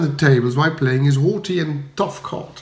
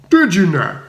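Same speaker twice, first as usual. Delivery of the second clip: furious retort; 4 semitones higher, 5 dB louder than usual. A narrator's reading. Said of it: "retorted a robust man".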